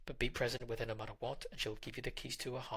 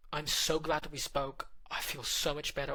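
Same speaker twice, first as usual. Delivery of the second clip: higher, louder, slow and grateful; grateful relief; 3 semitones higher, 5 dB louder than usual. Retold or imitated. Girlfriend thanking partner for talking it out, slow and grateful.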